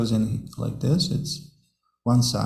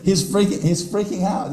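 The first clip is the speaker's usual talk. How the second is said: much higher, louder, excited panicky voice; freaking out; 8 semitones higher, 4 dB louder than usual. Pretend. Teacher voicing the panicked monkey, high and excited. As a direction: act out the frantic trapped monkey. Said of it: "Like freaking out".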